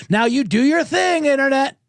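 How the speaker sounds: sarcastic call urging the internet to pile on; mock rallying cry. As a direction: egg on the online mob.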